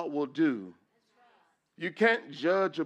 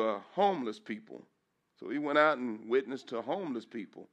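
ordinary talk, nothing marked

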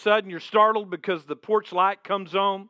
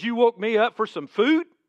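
incredulous, higher-pitched complaint; mildly hammed-up grumble, rising in disbelief; loud moan; 5 semitones higher than usual. Neighbor woken at midnight over food, mock moaning complaint. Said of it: "He moans real loud and says".

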